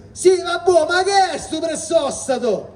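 high puzzled Neapolitan heckle; puzzled Neapolitan question. Shown as a demonstration. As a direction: demand an answer, high and baffled. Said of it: "agitando le mani in senso interrogativo napoletano".

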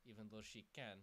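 hammed-up Russian accent, complaining to the mage; playful fake Russian accent with a grumbled Suka. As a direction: sulk about the insult in mock Russian accent. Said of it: "Buttface the Argonian is now Russian".

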